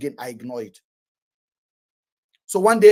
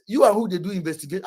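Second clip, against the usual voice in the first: cheeky retort; faster than usual. Retold or imitated. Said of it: "una know my mouth, my mouth no good".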